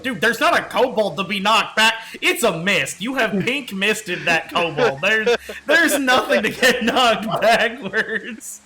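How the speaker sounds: loud, laughing disbelief; slowing down, incredulous. Retold or imitated. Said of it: "And I'm sitting like".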